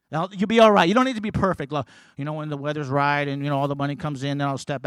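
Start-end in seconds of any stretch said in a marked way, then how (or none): 0.1-0.9 louder, firm and emphatic; firm declaration. Acted. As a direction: proclaim it with assurance. Same words said twice.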